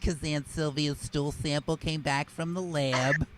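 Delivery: mom's messages skipped in chipmunk bursts, high and stretched; high garbled fast-forward mom voice. Retold or imitated. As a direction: mimic a tape fast-forwarding through mom's voice. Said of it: "listen to her messages like this".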